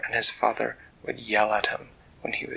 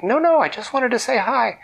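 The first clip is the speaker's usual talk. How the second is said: higher, louder pleading; 13 semitones higher, 7 dB louder than usual. Acted. Edvard pleading with the archers shooting at him, high anxious protest. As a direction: protest in a rush, hurt and eager. Dragon pleading under arrow fire.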